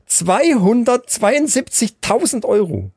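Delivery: zweihundertzweiundsiebzigtausend drawn out slowly, every syllable weighed; slow suspenseful number reveal; dramatic slow reveal. Real, not acted. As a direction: let the sum land slowly for shock. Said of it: "halt dich fest".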